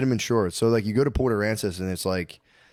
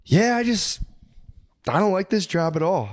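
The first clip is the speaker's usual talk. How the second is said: cashier impression; 9 semitones higher than usual. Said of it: "She was like".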